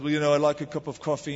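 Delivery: quick, casual attempt at an English accent. Preacher ordering at a pastry shop, English accent. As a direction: lightly put on an English accent. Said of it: "I'll put on my English accent".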